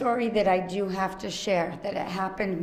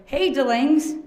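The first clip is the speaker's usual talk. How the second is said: loud, higher mock greeting; imitating him; 6 semitones higher, 6 dB louder, slower than usual. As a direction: call out the nickname the way he did. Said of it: "he go".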